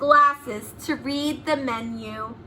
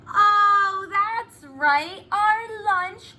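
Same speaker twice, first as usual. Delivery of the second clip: shouted realization; 6 semitones higher, much slower than usual. A narrator's reading. Pupils to teacher, shouting the correction. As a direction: call out the realization, slowing at the end. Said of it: "we shout".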